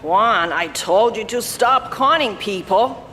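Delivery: put-on hoarse old woman's voice. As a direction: rasp it like a tired grandmother. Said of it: "An old hoarse voice chimed in".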